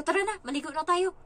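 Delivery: put-on loud, high call to a child. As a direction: act out summoning a child to the bath. Retells calling child to bathe. (malakas na pagtawag sa bata)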